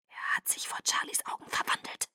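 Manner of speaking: tonloses, viel leiseres Zischen; gezischt. Acted. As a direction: zisch es entsetzt. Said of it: "zischte Edward". (Edward verrät Bella die Wahrheit, tonlos gezischt)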